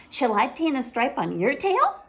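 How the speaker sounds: little sister wanting her turn; eager little sister. Acted. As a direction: offer it brightly. Ivy eager.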